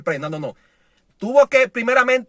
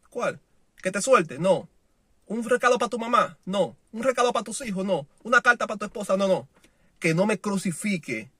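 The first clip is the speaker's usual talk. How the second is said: calm Peter; 3 semitones lower, 7 dB quieter than usual. Retold or imitated. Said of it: "estar tranquilo".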